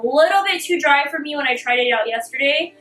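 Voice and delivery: talking with a numb mouth; words a bit slurred from numbness. Real, not acted. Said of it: "sorry if I'm talking a little bit weird. I just came from the dentist and my mouth is a little numb".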